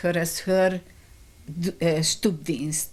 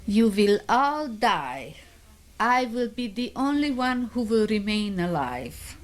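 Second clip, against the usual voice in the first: imitated accented threat; 5 semitones higher than usual. Camp elder threatening the prisoners, imitated cruel threat. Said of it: "with this, with her accent".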